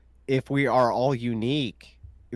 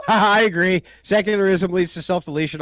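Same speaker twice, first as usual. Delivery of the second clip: sarcastic; 5 semitones higher, 6 dB louder than usual. Acted. Mocking agreement in a debate.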